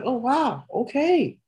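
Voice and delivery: high, fast and eager; hyped fan. Retold or imitated. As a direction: rattle it off, buzzing for a long match. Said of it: "I'm like".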